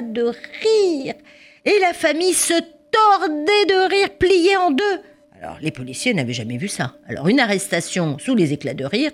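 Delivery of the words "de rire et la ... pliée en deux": much higher, excited telling; amused narration. A narrator's reading. Narrator describing family doubled up laughing, excited high telling. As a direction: tell it bubbling with amusement.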